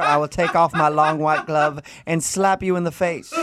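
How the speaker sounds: slow, high mock Southern belle accent, laughing. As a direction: ham up the offended Southern belle. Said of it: "Southern accent".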